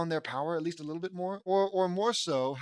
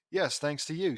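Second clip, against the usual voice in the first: lightly put-on British accent. Rescued girl thanking rescuers, light British accent. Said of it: "in a British accent".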